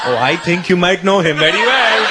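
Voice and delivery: put-on low, accented father toying with his son; teasing menacing dad. Dad hints who will be hurt, low and menacing. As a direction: play dad being coyly ominous, starting very low. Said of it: "'Cause he'd always say".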